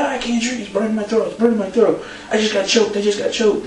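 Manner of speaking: high, plaintive mock whining. Co-host retells wrestler refusing a drink, mock whining. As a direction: imitate a wrestler complaining of a sore throat. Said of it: "A J's sitting, he's like".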